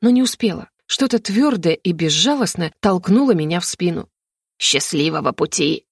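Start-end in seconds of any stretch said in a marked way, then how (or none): 4.6-5.9 low, snide villain's hiss; mustache twirling villain. Acted. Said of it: "ехидно прошипел старик".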